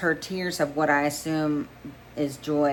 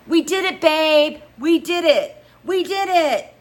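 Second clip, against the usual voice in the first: very high, loud squeals; screaming with joy; 13 semitones higher, 9 dB louder than usual. A narrator's reading. Girlfriend screams the news in his ear, squealing. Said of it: "she screams in my ear".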